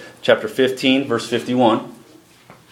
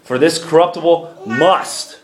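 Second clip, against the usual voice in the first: scripture reading. Acted. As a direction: proclaim the verses to the congregation. Reads scripture aloud to congregation.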